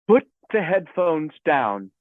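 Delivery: slow, measured, lightly put-on English accent; calm instruction in a rough English accent; attempted English accent. Engineer instructs the singer over talkback, attempted English accent. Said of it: "in an English accent".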